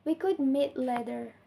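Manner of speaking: polite suggestion, fall-rise on "later"; tentative dip and lift on "later"; fall-rise intonation. Shown as a demonstration. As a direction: let "later" fall, then rise slightly. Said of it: "pitch falls and rise raised again".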